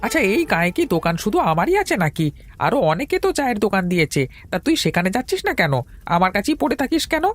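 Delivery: high-pitched, agitated complaint; exasperated scolding. Acted. Tea seller telling a pestering customer to go elsewhere, exasperated. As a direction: push him away with high, fussing indignation.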